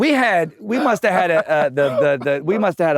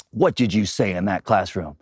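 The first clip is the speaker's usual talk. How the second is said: imitating principal; 12 semitones lower, 3 dB quieter than usual. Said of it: "He, he goes".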